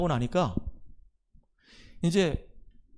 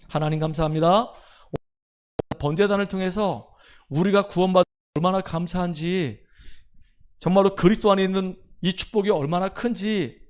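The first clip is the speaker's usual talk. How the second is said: prayer; 4 dB louder than usual. Real, not acted. Closing prayer.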